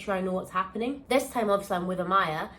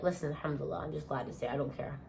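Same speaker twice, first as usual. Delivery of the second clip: relieved; 6 semitones lower, 11 dB quieter, faster than usual. Retold or imitated. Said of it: "I was like".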